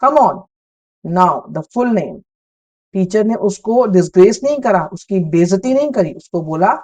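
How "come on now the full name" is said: gentle encouragement. Retold or imitated. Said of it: "the teacher encouraged her".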